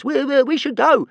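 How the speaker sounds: high, loud stammering dragon voice; panting dragon. A narrator's reading. Small dragon urging Hiccup to flee, panting stammer. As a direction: stutter it out, out of breath. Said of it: "panted Toothless".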